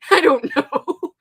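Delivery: high, slow, through laughter; laughing. Real, not acted. Embarrassed about the lyrics, laughing. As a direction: squeak it out mid-giggle. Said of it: "laughing after lyric mixup".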